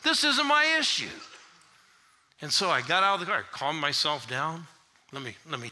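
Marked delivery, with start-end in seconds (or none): 0.0-1.2 high, loud exultant shout; shouting in the car. Retold or imitated. Pastor alone in his car, shouting for joy. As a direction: whoop it out, banging the wheel. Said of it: "started banging the wheel of the car".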